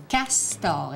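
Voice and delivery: "castor" drawn out in two beats; "castor" stretched syllable by syllable; syllable split. Shown as a demonstration. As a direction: say "castor" slowly, both syllables distinct. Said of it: "dans la première syllabe ou dans la deuxième".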